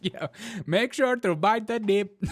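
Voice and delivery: high, laughing urge to buy the dip; laughing hype. Acted. Host urging viewers to buy while laughing. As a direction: giggle through the sales pitch.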